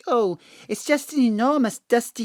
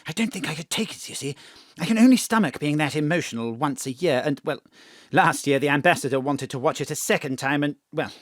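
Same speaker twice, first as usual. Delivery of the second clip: much lower and softer, a hushed admission; hushed confession; 8 semitones lower, 6 dB quieter than usual. Acted. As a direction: confess it quietly, almost under the breath. Peter's tearful confession.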